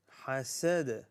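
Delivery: حسد with an echoed final d; bouncing dal. Shown as a demonstration. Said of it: "Dal here is a bouncing letter".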